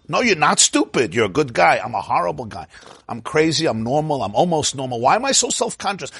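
quick back-and-forth inner voices, rising to an outburst; mental chatter. Acted. Rabbi acting out mental chatter during prayer, voices bickering. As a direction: act out the arguing thoughts. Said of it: "the mental chatter".

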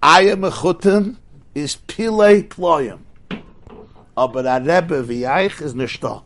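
simple coachman's voice. Retold or imitated. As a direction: give the coachman's plain, awed praise slowly. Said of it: "The Balagola said".

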